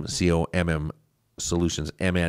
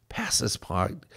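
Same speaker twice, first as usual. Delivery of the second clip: soft, whispery delivery; hushed, near-whispered request; 2 semitones higher, 7 dB quieter, slower than usual. Real, not acted. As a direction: let the words drop into a half-whisper. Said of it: "that was kinda whispery".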